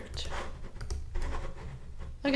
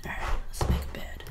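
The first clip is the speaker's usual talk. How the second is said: whispering; 5 dB quieter, much faster than usual. Real, not acted. Quiet start of building.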